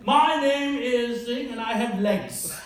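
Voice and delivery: slow, stiff Indian English answer. Retold or imitated. Nervous job candidate answers the interviewer in slow Indian English.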